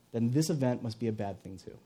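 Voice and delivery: low, subdued reasoning; downcast conclusion. Acted. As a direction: conclude it softly, losing hope. Fearful reasoning, contrasted with hopeful.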